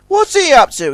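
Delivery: high suspicious tug voice; tugboat character voice. Acted.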